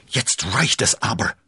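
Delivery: loud, high outburst; indignant shout. A narrator's reading. Englishman reaching for his sword, indignant shout. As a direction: call out at the end of your patience. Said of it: "rief der fremde Engländer".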